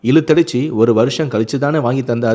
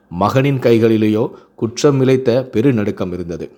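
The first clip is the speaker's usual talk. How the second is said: measured, expressive family-story reading; story narration. A narrator's reading. Narrator tells listeners of a son and father reconciling, expressive storytelling. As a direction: read the tale aloud, lightly voicing the dialogue.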